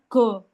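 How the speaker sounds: short, loud stopped go; hard G in go. Shown as a demonstration. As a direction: go with the tongue root stuck. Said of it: "Kayak pangkal lidah nempel gitu".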